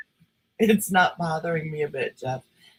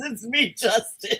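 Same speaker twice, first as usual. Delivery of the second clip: imitating Justin; 6 semitones higher than usual. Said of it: "He says".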